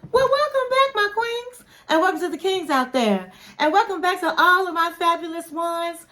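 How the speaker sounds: high, bright sing-song welcome back; hammed-up welcome. Real, not acted. Vlogger greeting her queens and kings, high sing-song. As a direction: greet the queens like a diva host.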